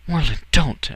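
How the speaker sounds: high, loud protest; urgent interruption. A narrator's reading. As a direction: cut in sharply to stop him. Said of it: "Alira interrupted".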